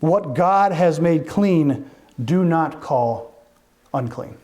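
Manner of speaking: slow, weighty divine command; God answering Peter, slow and solemn. Acted. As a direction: lay down the law slowly, like God from heaven. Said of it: "the voice came to him again".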